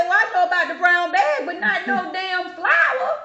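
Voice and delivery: high, loud, slow indignant retort; mock indignant. Retelling a stranger's outburst at the store, mock indignant. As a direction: drag out her scandalised reply.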